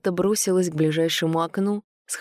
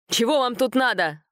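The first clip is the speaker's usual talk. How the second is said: shrill squeal; 6 semitones higher than usual. A narrator's reading. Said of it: "взвизгнул он".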